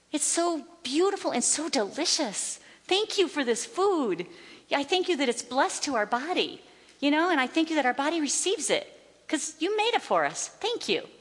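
grateful prayer. Retold or imitated. Woman thanking God for the food they eat, gushing gratitude. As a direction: re-enact a heartfelt grace over food. Acted-out grace over the food.

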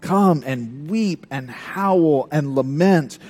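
slow, solemn call to lament; prophetic call. Retold or imitated. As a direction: draw out the call to mourn. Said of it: "that's what James is calling".

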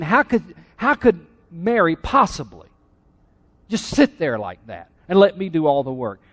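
mildly acted indignant Martha; a touch of exasperated disbelief; agitated complaint. Martha complaining about her idle sister, mildly agitated. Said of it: "her agitation escalated".

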